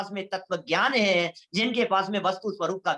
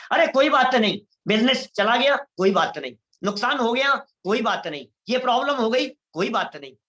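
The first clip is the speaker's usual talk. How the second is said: louder, breezy no-big-deal; enlightened man shrugging off losses, louder and carefree; carefree shrug; 5 dB louder than usual. Retold or imitated. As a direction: brush every loss aside cheerfully.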